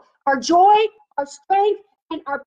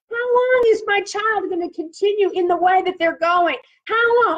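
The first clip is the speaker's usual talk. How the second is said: acted-out weary prayer of complaint; imploring lament. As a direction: plead as a weary believer, voice lifted. Voicing weary believers' prayers.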